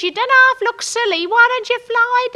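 high, loud jeering call up; mocking shout. Norm mocking his stuck wife from the ground, loud. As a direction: jeer up at her, loud.

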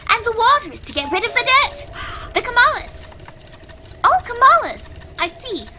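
put-on very old man. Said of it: "So with that voice done, I forgot how hard it is on my voice".

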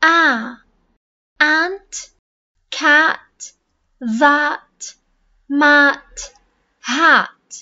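آ stretched and loud in أنت، كات، ذات، مات، هات; stressed vowel sound. Shown as a demonstration. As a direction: punch the آ in each word. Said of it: "لاحظوا إنه كل الأصوات".

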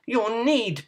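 high-pitched piggy voice; defiant pig. A narrator's reading. Pig talking back to the wolf, high voice.

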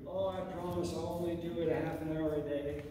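hammed-up bargaining promise. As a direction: plead like a kid striking a deal. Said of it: "bargain with you".

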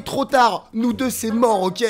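hammed-up final refusal; curt rejection. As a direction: act out a crush slamming the door on him. Acted crush ends it angrily.

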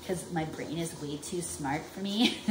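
chuckling through a self-mocking joke; laughing at herself. Real, not acted. Mom joking to viewers about her jumbled words, laughing. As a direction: laugh as you say it.

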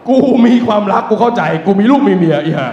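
ranting at the worker; mock outrage. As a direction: blow up in comic fury. Teller's outburst at her.

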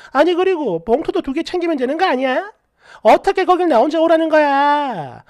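acted pushy, aggrieved friend; mildly heated, scolding friend; indignant complaint. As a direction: push the grievance with emphatic openings.

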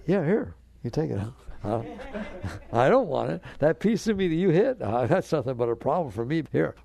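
hammed-up tough-guy comeback; a playful shout of defiance; mock defiant retort. Mock quarrel over a piece.

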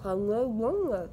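garbled through packed cheeks; cheeks stuffed full. Real, not acted. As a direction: talk through a full mouth. Chubby bunny with marshmallows.

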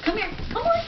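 squeaky high dog-calling voice; high coaxing. Real, not acted. Owner calling the dog over, squeaky high. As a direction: coax her over sweetly.

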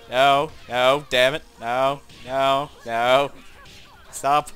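loud pleading no no; frantic gamer shouts; panicked shouting. Real, not acted. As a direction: shout at the game to stop. Losing a fight, panicking.

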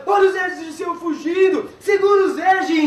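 high crowd yell, retold; shouting. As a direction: call out like an angry mob. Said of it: "o pessoal gritando".

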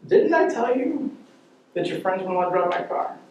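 high, incredulous scolding; mock outrage at the son; hammed-up exasperated father; exasperated dad.

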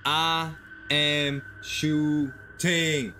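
spaced out word by word, very slow; slow, deliberate declaration with stretched words; emphatic declaration. Real, not acted. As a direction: draw out each word for emphasis. Declaring he would shoot intruder.

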